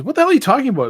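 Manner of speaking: high, loud furious outburst; angry shout. Acted. Doctor shark insulted at being called a nurse, shouting. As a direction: bellow it, deeply insulted.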